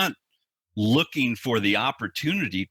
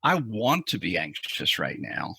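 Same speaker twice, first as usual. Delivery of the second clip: truly wanting; 3 semitones lower than usual. Shown as a demonstration. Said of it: "you hear that subtle difference".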